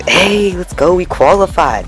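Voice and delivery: high, acted hype cheer; celebrating. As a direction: act out a happy gamer's victory shout. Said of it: "and more of".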